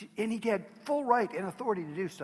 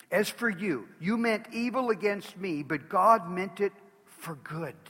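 loud, slow preaching boom; loud preached proclamation; proclaimed; 3 semitones higher, 6 dB louder than usual. Acted. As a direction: thunder it to the congregation. Preacher proclaims Joseph's words.

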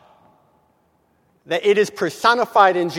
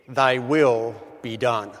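will leaned on, slow and resigned; Thy will be done with will stressed; 7 semitones lower, slower than usual. Shown as a demonstration. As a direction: lean on the word will, fall away. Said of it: "they accent the second word, will".

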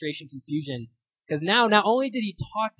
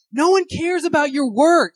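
high, loud, slow mock shout; daughter yelling; 12 semitones higher, 10 dB louder, slower than usual. Daughter shouting down her father at dinner, hammed-up yell. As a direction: hurl it across the table at dad.

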